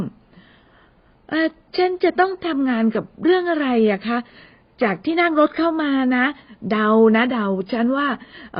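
lightly voiced young woman, curious; a hint of a young woman guessing aloud; Amy's voice. Narrator voices Amy. (เสียงผู้หญิงสาวเบาๆ ช่างสงสัย)

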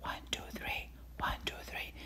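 whispered one, two, three. Shown as a demonstration. Lecturer demonstrating the patient's whispered count. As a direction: breathe the numbers without voice. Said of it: "please whisper".

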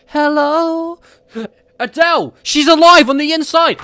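loud, very high excited yell; high shout. Acted. The Rock hears a singer inside the T-Rex, shouting high.

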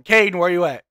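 loud call across the room. Real, not acted. Streamer calling for the lucky-charm friend: loud call. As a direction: holler for him to show up.

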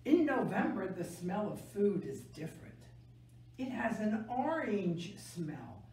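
gentle picture-book read-aloud; reading to children. A narrator's reading. Teacher reading a November book to kids, gentle storytelling.

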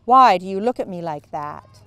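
loud fierce question; demanding. A narrator's reading. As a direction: confront the girl's stare. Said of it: "she demanded".

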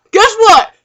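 loud, high, excited lead-in; gleeful announcement. Acted. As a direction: burst in with big news. Gleefully announcing good news.

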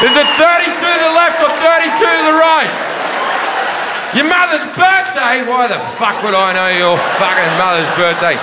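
mock panic. Gun owner panicking at safe.

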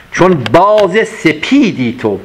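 slow, drawn-out verse line; poem recitation. Acted. Teacher repeating the verse for students, slow and deliberate. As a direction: savour the line as you recite.

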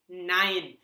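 "nein" said as nine, clear and falling; German nein. Shown as a demonstration. Teacher modelling German no for learners. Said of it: "we say nein".

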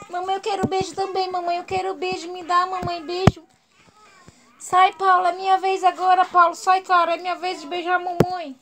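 lightly voiced begging pet; a hint of childish whining for attention; jealous dog's voice. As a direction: plead like a jealous little one.

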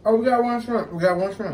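high, loud mock outrage; excited outburst. Real, not acted. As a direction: cry out in playful shock. Teasing about shrimp.

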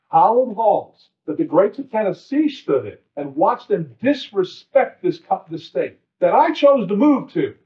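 rising heated protest; anger building as he defends the hallowed halls; getting angry. Real, not acted. To fellow legislators on the floor, heated and rising. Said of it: "I'm sorry for getting angry here".

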